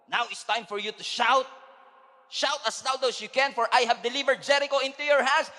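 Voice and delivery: loud, high commanding voice; God commanding the Israelites to shout; God's command. Acted. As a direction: order them to shout. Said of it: "sabi ng Bible".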